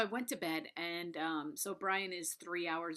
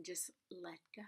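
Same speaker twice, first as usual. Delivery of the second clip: soft release; 9 dB quieter than usual. Shown as a demonstration. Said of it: "And then all of a sudden".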